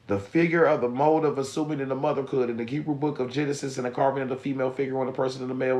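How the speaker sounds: reading aloud. Acted. Reads a book passage aloud.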